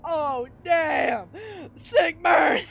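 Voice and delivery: loud, high whoop at an insult; hyped shout. Real, not acted. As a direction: yell it like a gleeful heckler. Mock reaction to a harsh letter.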